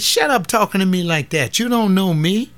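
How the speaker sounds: retold telling off. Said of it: "I said".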